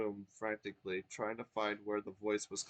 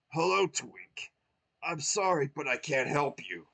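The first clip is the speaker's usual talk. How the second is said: glum Mario; 4 semitones higher, 7 dB louder than usual. Acted.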